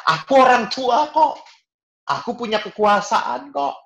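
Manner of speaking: high, loud haughty parent; proud parent. Retold or imitated. Preacher mocks parents who won't apologize. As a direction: boast of a parent's authority.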